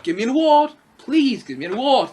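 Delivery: mock pleading for a prize; Jared Leto. Reviewer mocking an actor begging for awards, pleading. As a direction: beg in lightly hammed-up mockery. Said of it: "like he's holding up a sign".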